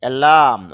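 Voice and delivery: অ্যালার্ম with the r nearly dropped, "alaam"; soft r. Shown as a demonstration. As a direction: barely sound the র in অ্যালার্ম. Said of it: "র sound কম হবে". (অ্যালার্ম-এ র প্রায় অনুচ্চারিত)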